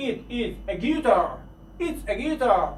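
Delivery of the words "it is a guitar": It is said slowly and apart; careful full form It is; drawn out It is. Shown as a demonstration. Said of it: "باید شما اینها رو حتماً بدونید".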